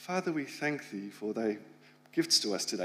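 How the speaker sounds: very soft, low, hushed voice. Recalling his grandfather's reverent time after lunch, imitating a very soft prayer voice. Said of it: "he would take on this kind of very soft voice".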